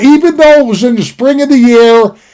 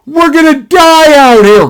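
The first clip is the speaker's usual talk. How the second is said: higher, panicky wail; mock panic; 6 semitones higher than usual. Cousin panicking far from any ranch, high panicky wail.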